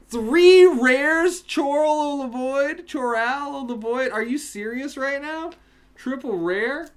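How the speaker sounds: high, loud screaming with joy; ecstatic shouting. Real, not acted. Streamer screams to chat over a triple rare, ecstatic shouting.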